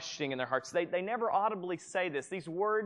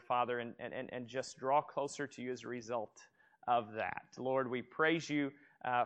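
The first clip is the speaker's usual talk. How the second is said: leading a prayer. Real, not acted. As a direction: pray aloud with the room, gently. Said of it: "Pray with me".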